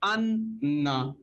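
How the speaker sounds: अन्ना slowly, n held double; अन्ना drawn out for tashdeed; slow doubled n demo. Shown as a demonstration. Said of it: "जैसे".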